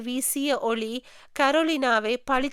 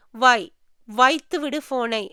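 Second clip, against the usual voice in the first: louder, scolding order; stern telling-off, louder; sharp command; 3 dB louder than usual. Acted. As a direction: bark it at him to hang up. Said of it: "என்று அதட்டியதும்".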